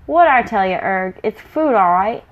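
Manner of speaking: gleeful brutish troll. Acted. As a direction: crow about the catch like a troll. Big troll spots food.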